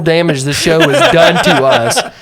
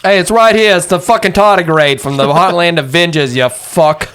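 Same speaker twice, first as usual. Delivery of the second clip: yelling; 4 semitones higher than usual. Acted. Tardigrade yelling at Cameron.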